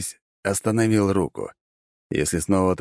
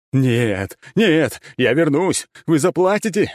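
loud desperate roar, slowed; ancient lich voice; 9 semitones higher, 4 dB louder, slower than usual. Acted. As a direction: scream vowing revenge. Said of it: "орал Корус, надрывая глотку". (отчаянный рёв древнего лича)

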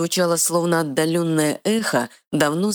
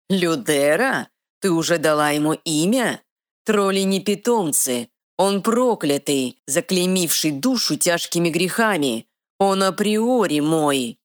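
haughty dark lord; 4 semitones higher than usual. Acted. Dark lord claims troll.

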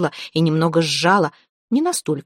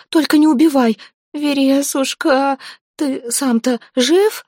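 terrified pleading; 8 semitones higher than usual. Acted. Zateya begs the dead man not to kill her, terrified. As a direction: beg for your life, terrified.

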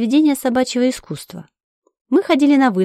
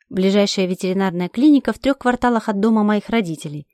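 plain reading voice

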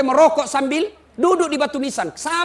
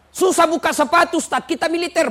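soldier asking; 6 semitones higher, 4 dB louder than usual. Retold or imitated. Soldier asks the preacher.

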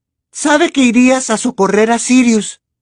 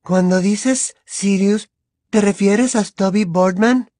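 dreamy, vague; 3 semitones lower, slower than usual. Acted. Luna's dreamy question.

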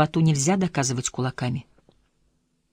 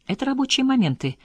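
reluctant; 9 semitones higher than usual. A narrator's reading. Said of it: "с неохотой произнёс он".

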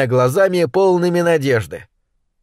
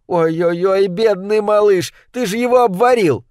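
wailing mother; 4 semitones higher than usual. Acted. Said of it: "не переставая голосить".

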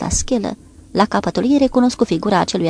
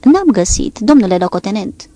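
panting; 6 dB louder than usual. Acted. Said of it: "Paget se înapoie gâfâind".

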